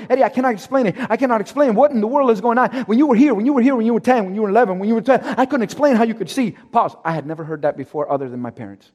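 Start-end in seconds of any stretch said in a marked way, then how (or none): 0.1-6.5 a lightly voiced doctor rattling it off fast; rushed doctor. Doctor telling Eddie he cannot explain his sight, fast rushed talk. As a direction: tumble the words out quickly. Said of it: "he's talking a hundred miles an hour".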